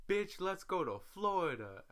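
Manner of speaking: high, loud squeal of a text; excited invite. Retold or imitated. Friend texting her, loud and high with excitement. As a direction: sell the trip with a shriek.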